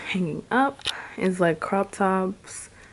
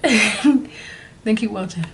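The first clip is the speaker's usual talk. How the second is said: laughing; slower than usual. Real, not acted. Laughing through the outro.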